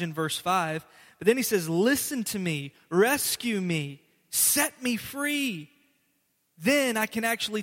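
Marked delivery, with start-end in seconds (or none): 1.7-5.7 slow, drawn-out plea; slow plea rising at the end; pleading request. Acted. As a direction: beg slowly to be set free. Quoting psalmist's request.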